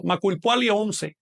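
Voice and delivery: "Macuil Puali once" said slowly, accented on the next-to-last syllable; penultimate-syllable stress. Shown as a demonstration. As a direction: lean on PUA in "Puali" and ON in "once". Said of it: "con acento en la penúltima sílaba".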